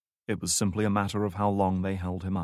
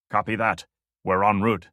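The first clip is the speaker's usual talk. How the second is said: louder, borrowed guard's voice; imitating Lopez; 5 dB louder than usual. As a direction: pose as the guard on the radio. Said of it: "imitating the man's accent".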